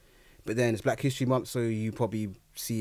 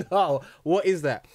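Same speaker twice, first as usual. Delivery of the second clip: higher-pitched, drawn-out acted disbelief; 5 semitones higher, 4 dB louder than usual. Teen retelling his reaction to the video, disbelieving. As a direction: replay a stunned, slow refusal.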